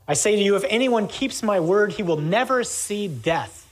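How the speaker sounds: deliberate scriptural declaration; emphatic proclamation. Acted. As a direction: proclaim a solemn promise, falling at the end. Reading Jesus's solemn promise.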